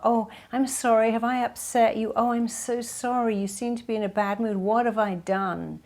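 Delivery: mock anxious sorry voice; anxious apologizing. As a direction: gush apologies like a nervous people pleaser. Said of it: "people who are people pleasers say sorry a lot".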